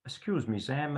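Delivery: lightly imitated proper accent, softly spoken; a hint of a very proper accent; Howard Noble. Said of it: "in his, uh, proper accent".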